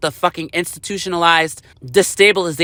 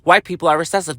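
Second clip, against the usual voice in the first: hypothetical quote; 2 semitones lower, faster than usual. Retold or imitated. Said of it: "What if they said that?".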